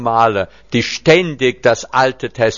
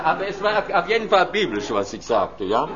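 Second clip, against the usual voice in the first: quiet aside; 4 semitones higher, 8 dB quieter than usual. Real, not acted.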